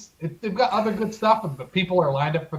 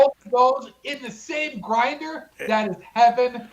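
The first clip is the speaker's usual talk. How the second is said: higher, drawn-out, excited food rave; real excitement; 5 semitones higher than usual. Real, not acted. Food lover raving to co-host about a combination grinder, excited. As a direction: savor it with rising excitement. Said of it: "I'm getting so excited".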